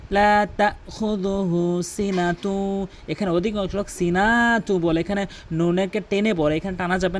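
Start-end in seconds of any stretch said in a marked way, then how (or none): 0.1-2.9 তাখুযুহু with a clear glottal stop, slow; correct hamza. Shown as a demonstration. Teacher demonstrates hamza to students, slow and careful. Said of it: "হামজার উচ্চারণ করতে হয় তাখুযুহু".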